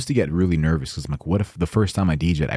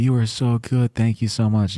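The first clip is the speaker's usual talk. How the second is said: higher-pitched imitated gratitude; gushing thanks; 7 semitones higher than usual. Bride and groom hugging the DJ, gushing. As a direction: gush as the thrilled couple, pitched up. Acts out newlyweds thanking him.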